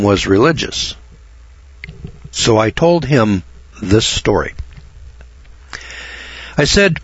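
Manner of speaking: measured, deliberate storytelling with dramatic pauses; written story narration. Acted. Man reads an audience his account of the preacher, measured narration. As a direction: read your written account aloud, lingering on key phrases.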